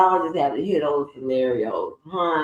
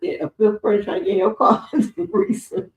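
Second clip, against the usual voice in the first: laughing tease; 3 semitones higher than usual. Pretend. Teasing mock phone question, laughing.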